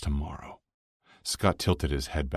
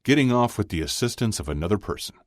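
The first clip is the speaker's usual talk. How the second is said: higher, emphatic ruling; with authority; 7 semitones higher, 4 dB louder, faster than usual. A narrator's reading. Chuck defines the rule for Jimmy, with authority. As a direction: lay down the definition. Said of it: "Chuck said with authority".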